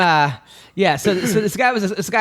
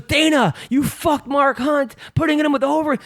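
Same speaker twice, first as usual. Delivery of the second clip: imitated drunken heckling; 10 semitones higher than usual. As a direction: play a wasted fan hollering at someone. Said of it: "he starts yelling".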